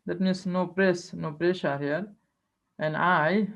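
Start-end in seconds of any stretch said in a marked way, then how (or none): 3.0-3.5 I pressed and drawn out; stress on I. Shown as a demonstration. Teacher showing students the stressed syllable, stress on I. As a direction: put pressure on I. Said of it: "there is a pressure here".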